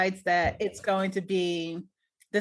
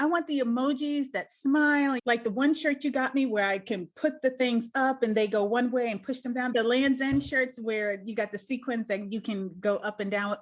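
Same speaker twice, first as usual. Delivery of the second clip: put-on animated child. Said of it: "So she got so animated".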